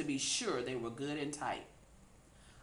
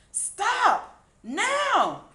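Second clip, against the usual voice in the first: high, loud commanding shout; 12 dB louder than usual. A narrator's reading. Cindy shouting at the pigs to stop. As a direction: bark it at the pigs. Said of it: "shouted Cindy".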